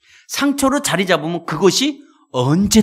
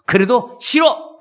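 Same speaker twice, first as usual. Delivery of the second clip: drawn-out, higher "no"; slow stubborn refusal; 6 semitones higher, 4 dB louder, slower than usual. Acted. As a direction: refuse slowly and firmly, a bit louder. Man refusing devil. (느리고 고집스럽게 거절)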